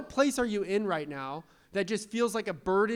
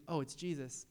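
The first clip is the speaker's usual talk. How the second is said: hushed realization; 5 semitones lower, 10 dB quieter than usual. Retold or imitated. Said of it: "And she goes".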